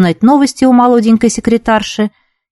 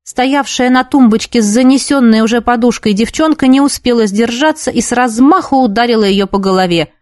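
plain reading voice

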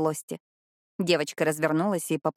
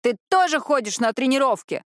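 higher, loud protest; wailing yell; 6 semitones higher, 3 dB louder than usual. A narrator's reading. Mordecai wails back at his sister, loud. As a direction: howl it back at her. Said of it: "завопил Мордекай".

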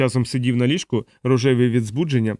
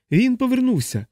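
1 hysterical cry; 11 semitones higher than usual. A narrator's reading. Ward panic spreading.

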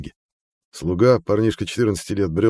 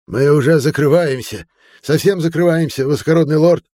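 frightened shopkeeper; 9 semitones higher, 7 dB louder than usual. A narrator's reading. Frightened apothecary blocks the lord.

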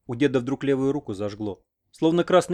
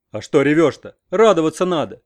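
louder, brusque rebuke; gruff scolding; 3 semitones higher, 8 dB louder than usual. A narrator's reading. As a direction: snap at her to stop crying. Grandfather scolds crying girl.

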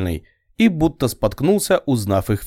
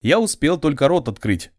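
ordinary delivery, nothing marked

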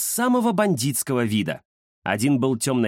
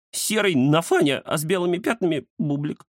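squeaky; 5 semitones higher than usual. Acted. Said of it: "пискнул Кузя".

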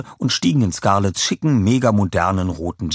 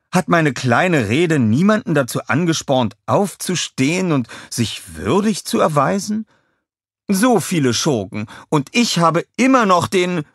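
Scarlett calling; 9 semitones higher, 4 dB louder than usual. A narrator's reading. Scarlett scolds the beaten villains, high and loud.

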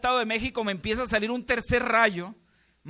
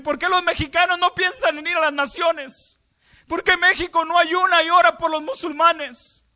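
loud, high sobbing lament; Jesus weeping over the nations, loud high anguish; crying in pain; 8 semitones higher, 8 dB louder than usual. A narrator's reading. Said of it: "Jesús empezó a llorar con muchísimo dolor".

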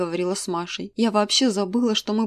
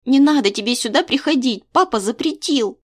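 put-on girl's voice; 5 semitones higher, 6 dB louder than usual. A narrator's reading. Daughter rejects mother.

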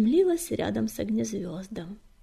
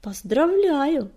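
loud, drawn-out, higher congratulation; raised, stretched cry of congratulation; exclaiming; 5 semitones higher, 7 dB louder, much slower than usual. A narrator's reading. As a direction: exclaim it slowly and heartily. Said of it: "воскликнул Ячмень".

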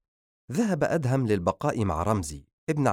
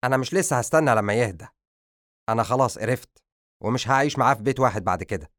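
fast, louder angry interruption; 2 semitones higher, 5 dB louder, faster than usual. Acted. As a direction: cut her off in anger. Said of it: "قاطعها بغضب".

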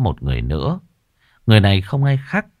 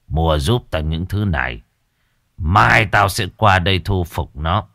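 put-on old master instructing. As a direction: tell them what to buy.

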